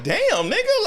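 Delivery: high, stung reaction; comic hurt surprise. Retold or imitated. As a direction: squeak it like the joke just landed on you. Naruto reacting to insult.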